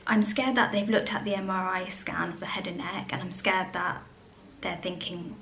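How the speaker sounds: hushed, breathy confession of fear; scared whisper. Real, not acted. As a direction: whisper it like admitting a secret fear. Confessing fear about the scan.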